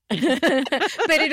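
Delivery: laughing into the words, pitch bouncing; amused laughter. Real, not acted. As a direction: press on through a laugh. Laughing at the guest's denial.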